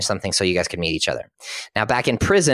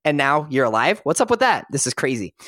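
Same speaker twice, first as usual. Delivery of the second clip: incredulous, half-hammed-up; retold disbelief; 2 semitones higher than usual. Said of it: "Cutter is furious".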